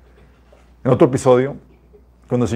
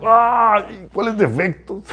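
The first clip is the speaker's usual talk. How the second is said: mock surprise; 8 semitones higher, much slower than usual. Mocking his own reaction to God.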